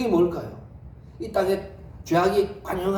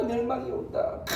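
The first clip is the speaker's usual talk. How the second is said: proclaiming; 4 semitones higher, 5 dB quieter than usual. Acted. Enoch proclaiming daily.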